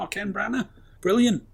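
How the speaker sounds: high-pitched, delighted recalled reaction; overjoyed. Retold or imitated. Host recalls spotting Branagh in the film, overjoyed. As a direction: voice lifts high in pleased recognition. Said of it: "I was overjoyed to see him".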